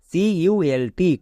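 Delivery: very slow, letter by letter; spelled out slowly. Shown as a demonstration. Teacher spelling for students, very slow. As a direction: spell it out one letter at a time. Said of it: "spelling letters out slowly".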